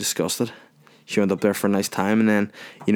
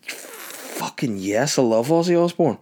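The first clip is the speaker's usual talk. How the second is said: excited; 4 semitones higher, slower than usual. Retold or imitated. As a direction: burst out with joy. Thrilled about the concert gift.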